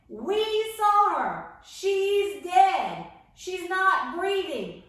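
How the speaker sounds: loud, high, slow scoffing; mockers. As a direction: scoff at him in disbelief. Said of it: "And they're like".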